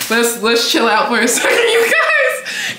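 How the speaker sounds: giddy, failing to settle; overstimulated. Real, not acted. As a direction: try to calm down, then squeak with laughter. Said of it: "I'm getting overstimulated".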